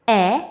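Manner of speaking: e as short "eh", as in exit; isolated short vowel "eh" for e; short E sound. Shown as a demonstration. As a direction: say e briefly as "eh", not "ee". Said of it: "It's short sound".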